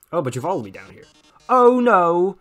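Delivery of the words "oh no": hammed-up louder gasp; a showman's fake panic; mock alarm. Melodramatic host gasp.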